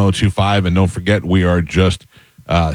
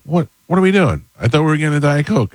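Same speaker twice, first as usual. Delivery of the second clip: mock indignant; 8 semitones higher than usual. Dad retells scolding daughter.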